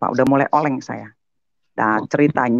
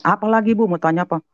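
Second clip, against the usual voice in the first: high, impatient reply; imitating a testy preacher; irritated teacher; 7 semitones higher than usual. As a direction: imitate the annoyed ustadz. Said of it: "jangan marah dong".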